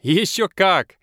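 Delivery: high, loud laughing reply. A narrator's reading. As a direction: laugh it out while waving. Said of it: "смеётся Мо".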